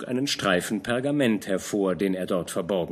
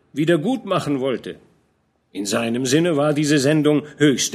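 a hint of a fatherly knight, raised and earnest; old general scolding a young knight, lightly voiced; lightly voiced old commander; 4 semitones higher, 5 dB louder than usual. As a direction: admonish the young man gently but firmly. Fronsberg lectures Georg.

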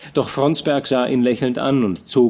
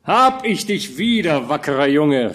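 put-on higher, bright greeting of an old friend; a gruff comrade's glad hail; joyful cry of reunion; hearty exclamation; 5 semitones higher, 3 dB louder than usual. A narrator's reading. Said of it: "rief Breitenstein".

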